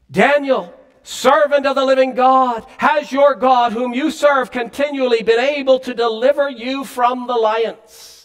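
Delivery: a touch of anguish, calling out; anguished lament. Acted. King calling to Daniel in the den, mildly anguished. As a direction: plead into the den with a lamenting cry. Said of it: "With an anguished, lamenting voice, he cried out".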